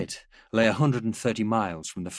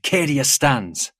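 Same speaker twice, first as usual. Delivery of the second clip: raised, slow rallying cry; soldiers' shout; 5 semitones higher, 5 dB louder, much slower than usual. A narrator's reading. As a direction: chant it proudly from the crowd. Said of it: "shouts of".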